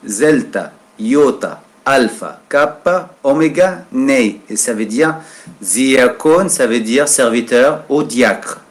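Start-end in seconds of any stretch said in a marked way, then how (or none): 0.1-4.4 "Zelta, iota, alpha" said falling, evenly; spelling again. Shown as a demonstration. Teacher repeating the spelling to students, steady. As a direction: repeat the letters calmly, one at a time. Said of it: "pour prononcer les lettres".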